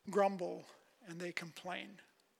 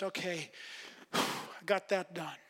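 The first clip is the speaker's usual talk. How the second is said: bored sigh; 3 dB quieter than usual. Retold or imitated. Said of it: "it's not simply just".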